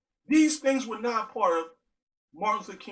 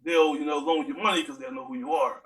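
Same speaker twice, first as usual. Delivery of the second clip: lower, raspy fatherly advice full of uh fillers; stepdad's deep raspy voice; 5 semitones lower than usual. Retold or imitated. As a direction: play the stepdad, deep and raspy, hesitating before every phrase. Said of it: "Uh, that's how he talks".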